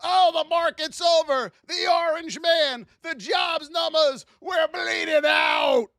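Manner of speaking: mock panicking trader. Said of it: "try to catch the old ball".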